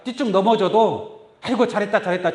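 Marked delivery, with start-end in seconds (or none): 1.4-2.3 praising parent. Pretend. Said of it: "칭찬해주고".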